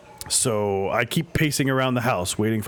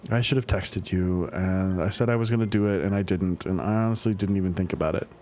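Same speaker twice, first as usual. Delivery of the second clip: apologetic daughter. Acted. Daughter Amanda apologizing to her dad over breakfast, sincere. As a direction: own up gently, a little sheepish.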